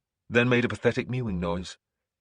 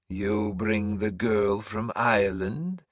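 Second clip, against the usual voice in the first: put-on old seeress announcing; 2 semitones higher, slower than usual. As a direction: proclaim like an eerie prophetess. Breda asks.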